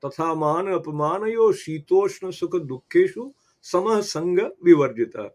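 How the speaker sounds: slow, measured recitation of a Sanskrit verse; Sanskrit shloka recitation. Shown as a demonstration. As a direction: recite the verse slowly and evenly, like scripture. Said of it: "उसमें से एक श्लोक का, स्मरण करें".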